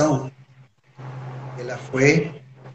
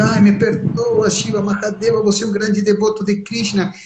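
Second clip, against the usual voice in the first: Narada apologizing; 6 semitones higher than usual. Acted. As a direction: beg forgiveness sheepishly. (Narada pedindo perdão a Shiva, voz mais aguda e suplicante)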